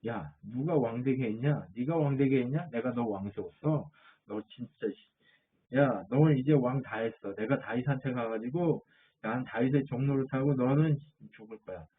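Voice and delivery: half-acted fury, the last words dropping away; mock angry rant. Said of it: "아브넬이 열받아가지고". (열받은 장군 흉내, 살짝 화난 말투)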